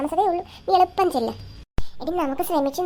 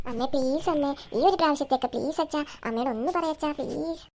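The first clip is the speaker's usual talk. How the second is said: small wheedling plea, trailing softer; pleading; 4 dB quieter than usual. Acted. Child begging mother and father to allow it, pleading. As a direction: beg both parents for a favour.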